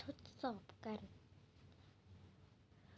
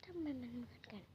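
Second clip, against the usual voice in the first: whisper; 6 dB quieter than usual. Real, not acted. Unvoiced aside.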